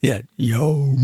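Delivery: drawn-out southern dog yowl; Carolina-accented dog bark. Shown as a demonstration. Retriever barking to a New Guinea dog, southern dog bark. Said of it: "North Carolina mixture, South Carolina, uh, accent".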